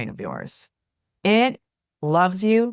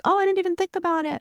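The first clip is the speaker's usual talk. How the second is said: surprised client; 13 semitones higher, faster than usual. Retold or imitated. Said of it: "people are like".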